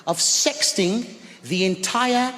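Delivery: teacher calmly correcting the uncle; cool teacher. Retold or imitated. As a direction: turn the question back on him coolly. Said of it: "she said".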